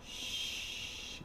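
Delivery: breathy whispered shh; whispered shush. Retold or imitated. Creepy killer whispering shh to his victims. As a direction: hush them like a killer standing over you.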